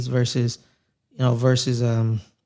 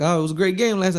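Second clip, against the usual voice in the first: slightly higher mock Australian; horrible Australian accent; 4 semitones higher than usual. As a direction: loosely imitate an Australian fan. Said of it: "That's my horrible Australian accent".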